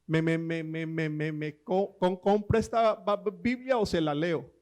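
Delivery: stammering through the first syllables, mock stutter; retelling a friend's stutter joke, halting on each syllable; imitating a stutter. Friend telling the pastor how he sells Bibles, mock stammer. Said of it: "Tengo un amigo tartamudo".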